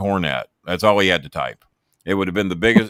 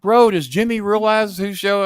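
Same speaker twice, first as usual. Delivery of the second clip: much higher, slow, amazed put-on voice; voicing Russo; 13 semitones higher, 6 dB louder, slower than usual. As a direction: stretch it out like a thrilled host. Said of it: "he says".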